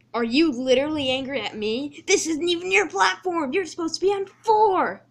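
outraged, rising to high, loud scolding; very annoyed. Acted. James scolds Percy for taking his platform, very annoyed. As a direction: build to an indignant shout. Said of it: "was very annoyed".

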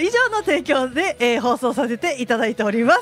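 long tone. Shown as a demonstration. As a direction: stretch every word out long. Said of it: "ロングトーンで".

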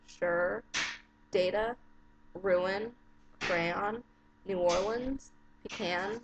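each word read alone with a rising lilt, in her own Arizona accent; accent tag word list. Shown as a demonstration. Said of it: "So I'll do my tax accent".

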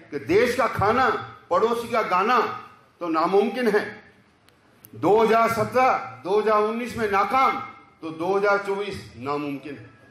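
declaimed satirical verse in short, separated phrases; punchy stage recital with measured pauses; poem recitation. Acted. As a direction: lift each line, then let the refrain fall. Recites own political verse.

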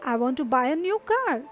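I want to buy a new car, said very slowly; slowly, for learners; slow example sentence. Shown as a demonstration. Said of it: "तो जैसे". (धीमा उदाहरण वाक्य)

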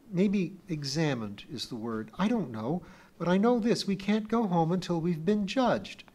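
put-on a young girl urging Kip to listen; pleading little girl. A narrator's reading. Pee-wee explains the secret to Kip, high and urgent.

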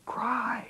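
the word cry pitched high and held; cry stressed. Retold or imitated. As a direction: lift "cry" up high and lean on it. Dean's advice on crying.

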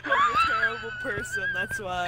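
high squeaky mock voice; squeaky falsetto. Joking after being scolded.

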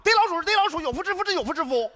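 high, stammering, flustered indignation; exasperated rant. Acted. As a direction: sputter it out, baffled and worked up.

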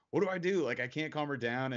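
a frustrated dad pleading; retold panic.

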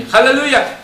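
high, loud hallelujah; high ringing hallelujah; joyful cry. Acted. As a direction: shout it like heaven rejoicing. Preacher voicing heaven's cry.

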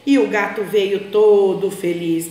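put-on lively storybook reading for small children; story narration. A narrator's reading. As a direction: tell it like a bedtime tale, animated.

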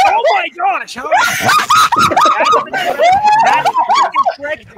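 shrieking in disbelief; high outraged yell; calm turning angry. Real, not acted. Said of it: "calm down".

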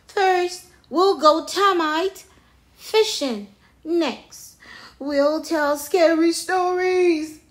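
loud, high excited character voice; excited storybook chimp; eager planning. A narrator's reading. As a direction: list the fun plans with relish. Jim eagerly lists sleepover plans.

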